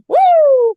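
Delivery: high loud whoop; celebratory cheer; cheering woo. Real, not acted. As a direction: whoop like a fan in the crowd. Cheering the guest's pick.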